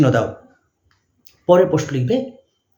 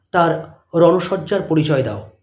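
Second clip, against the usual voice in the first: dictating; slower than usual. Shown as a demonstration. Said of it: "জিজ্ঞাসা চিহ্ন দাও".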